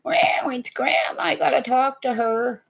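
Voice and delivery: the cat's voice as a hushed whisper; cat whispering about Grandma on the phone. Retold or imitated. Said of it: "and it's like".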